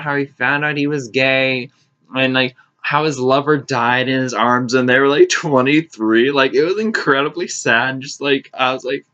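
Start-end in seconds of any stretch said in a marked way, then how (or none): none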